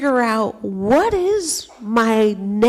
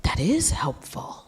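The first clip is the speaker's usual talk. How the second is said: pleasant surprise; 8 dB quieter than usual. Retold or imitated. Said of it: "the girls would try and they go".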